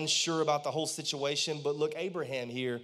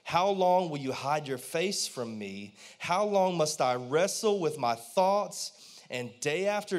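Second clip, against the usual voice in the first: pleading lament. Retold or imitated. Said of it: "He said".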